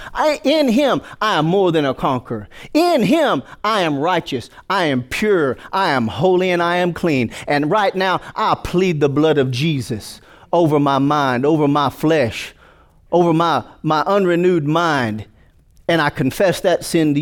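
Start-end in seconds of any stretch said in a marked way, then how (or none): 0.1-7.3 rising ringing confession; bold declaration. Acted. Preacher leading confession before the church, proclaiming. 8.3-15.3 slow, deliberate prayer; earnest prayer. Acted. Preacher praying over his mind, slow and earnest.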